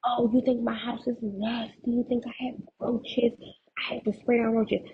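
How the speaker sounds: retold yelling. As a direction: imitate an indignant scolding without shouting. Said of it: "like, yelling at me".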